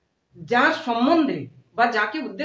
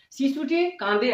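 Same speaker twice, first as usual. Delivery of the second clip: slow, clear model reading of শিশুটি কাঁদে; slow model sentence; much slower than usual. Shown as a demonstration. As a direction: read শিশুটি কাঁদে slowly for the class. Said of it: "প্রথমে যেটা রেখেছি সেটা হচ্ছে শিশুটি কাঁদে". (ধীরে স্পষ্ট করে পড়া)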